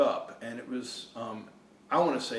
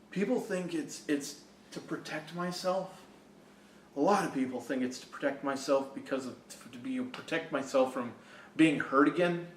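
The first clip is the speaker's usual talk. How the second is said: teary. Real, not acted. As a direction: hold back the tears as you speak. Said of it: "I'm getting a little teary".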